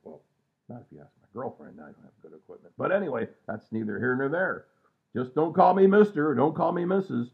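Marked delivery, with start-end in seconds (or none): 0.0-2.7 joking aside. Real, not acted. Joking aside, much softer. 5.1-7.3 emphatic joke. Real, not acted. Emphatic punchline.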